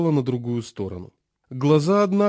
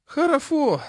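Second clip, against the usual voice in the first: put-on high, slow lisping old man; toothless old man; 14 semitones higher, slower than usual. A narrator's reading. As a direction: mumble slowly through gums. Chairman voiced.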